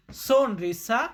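sonrisa said very slowly, syllable by syllable; slow spelled-out Spanish. Shown as a demonstration. Teacher slowly modelling sonrisa for viewers. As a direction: draw out sonrisa for learners. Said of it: "Spanish ভাষাতে বলবো".

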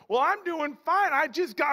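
high, loud, chatty Southern gentleman; Texan cowboy. Retold or imitated. Texan answering a New York bartender's greeting, high and loud cowboy voice. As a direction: launch eagerly into it as a talkative cowboy. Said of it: "gentleman from the South".

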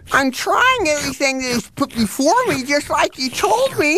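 talking with a full mouth; words round a mouthful of food. Acted. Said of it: "You're talking with your mouth full".

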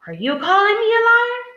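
high, rising, affronted question; confrontational challenge. A narrator's reading. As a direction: climb sharply into an indignant challenge. Ted confronts Bertha in story.

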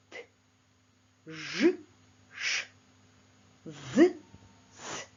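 voiced and voiceless consonants said in pairs, each alone; teacher contrasting voiced and voiceless sounds; paired sounds. Shown as a demonstration. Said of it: "Давайте вимовимо попарно звуки".

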